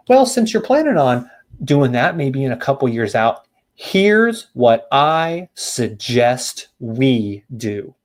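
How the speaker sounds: drawn-out agent line, very slow at the end; slow script read. Shown as a demonstration. Agent slowly pitching a homeowner, slow and deliberate. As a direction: spell it out slowly for the trainees. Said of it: "I'm gonna say it slow".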